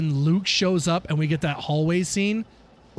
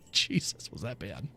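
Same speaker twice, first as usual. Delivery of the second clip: breathy whispered aside, much softer; hushed dismay; 10 semitones lower, 9 dB quieter than usual. Real, not acted. Gamer recalling bad season, hushed whisper. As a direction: whisper it in disbelief.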